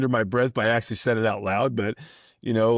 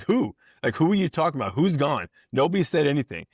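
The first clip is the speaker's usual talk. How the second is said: much higher, bewildered protest; incredulous Skip; 5 semitones higher than usual. Retold or imitated. Manager baffled at umpire's ejection, high incredulous protest. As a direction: play the baffled manager demanding who exactly. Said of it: "that's when Skip turned into an owl".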